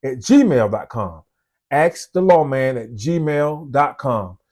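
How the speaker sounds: slow, careful spelling out of "gmail dot com"; deliberate, unhurried email read-out; slow dictation. Shown as a demonstration. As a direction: read the address slowly so viewers can note it. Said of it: "My email is".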